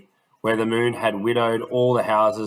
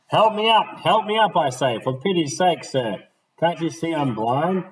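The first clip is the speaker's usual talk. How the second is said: higher, louder desperate plea; begging old gent; 7 semitones higher, 4 dB louder than usual. Acted. Blind gentleman on the ground begging Smith to help him up, high and pleading.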